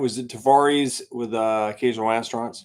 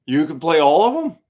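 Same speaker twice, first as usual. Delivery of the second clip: higher, louder disbelief; can't believe it; surprised question; 5 semitones higher, 6 dB louder than usual. Retold or imitated. Band checking Billy's claim, surprised and higher. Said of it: "band asking Billy".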